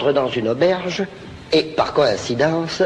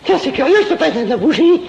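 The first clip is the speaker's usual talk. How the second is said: high character voice; 13 semitones higher, 5 dB louder than usual. Acted.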